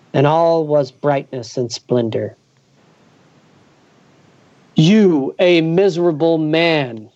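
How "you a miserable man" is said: a touch of goblin king scorn; withering put-down, lightly voiced; contemptuous. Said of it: "in a more contemptuous tone than before".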